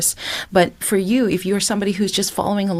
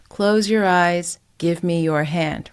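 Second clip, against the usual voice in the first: monotone; slower than usual. Shown as a demonstration. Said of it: "speaking in a monotone voice".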